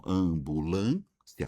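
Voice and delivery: "Ambulância" slowly by syllables, LÂN rising and held; stress on penultimate. Shown as a demonstration. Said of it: "a penúltima sílaba é a sílaba mais forte".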